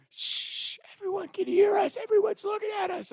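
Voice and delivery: high, soft urgent hush; hushed warning. Retold or imitated. Friend hushing him because everyone hears, hushed. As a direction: shush him and warn him.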